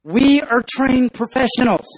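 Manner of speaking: slow, earnest know-it-all; nerdy ant. Acted. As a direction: reassure them, deliberately. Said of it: "the real nerdy looking ant".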